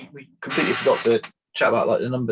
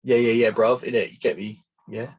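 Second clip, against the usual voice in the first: put-on light London roadman accent with bruv; hammy London roadman accent. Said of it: "Is that how London?".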